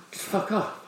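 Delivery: whispered aside. Real, not acted. Nurses suddenly leave.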